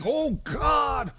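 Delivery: high, drawn-out imitation of pleading; mock crying out to God. Troubled churchgoer begging for a miracle, mock crying out to God. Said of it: "they're crying out to God".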